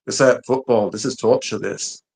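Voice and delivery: lightly imitated aggrieved fan; mock despair of a United fan; Man United fan. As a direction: mimic a moaning football supporter. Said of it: "viral Man United fans".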